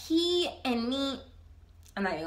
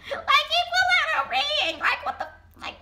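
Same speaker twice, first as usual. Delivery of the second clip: very high, stunned squeal with a laugh; incredulous squeal; 13 semitones higher, 3 dB louder than usual. Real, not acted. Storyteller reliving the ring reveal, incredulous squeal. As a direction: squeak it out in total disbelief. Shocked retelling of the proposal.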